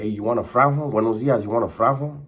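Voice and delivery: put-on offering cigarettes in an Italian accent; thick Italian accent. Angelo offering homies a cigarette in a mock Italian accent. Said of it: "But with really thick accent".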